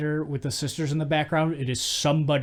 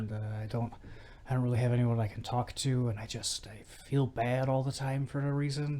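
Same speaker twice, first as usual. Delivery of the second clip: Barry; 6 dB quieter than usual. Retold or imitated. Barry confides in his brother-in-law, quietly downcast. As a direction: imitate someone haltingly owning up to misery. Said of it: "And Barry's like".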